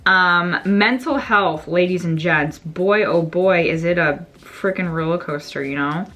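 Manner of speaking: talking while applying mascara; distracted, doing mascara mid-sentence. Real, not acted. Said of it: "I can't talk and do mascara all at the same time".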